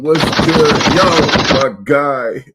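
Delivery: high, loud, excited hello; hyped greeting. Real, not acted. Host greeting a friend joining the stream, loud and excited. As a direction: greet your buddy all fired up.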